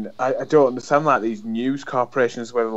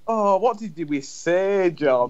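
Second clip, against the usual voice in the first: high-pitched scolding through laughter; comedian's mock scolding; 7 semitones higher, slower than usual. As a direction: retell a comic telling-off, slow and high, giggling. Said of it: "he goes over and pretends".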